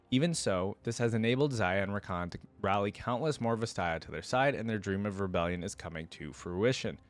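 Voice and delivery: read-aloud lore narration; even, deliberate storybook reading; story narration. Acted. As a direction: narrate it like the close of a tale.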